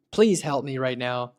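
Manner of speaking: lightly acted plea for help, near his own voice; a touch of worry, asking for help; mild pleading caller. Testing the bot as a mildly anxious caller. Acting as worried caller to agent.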